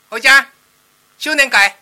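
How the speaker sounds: put-on loud, high heckle from a child; loud, high cheeky child; kid's shout. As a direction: yell it up at him like a cheeky kid. Kid shouting at storyteller.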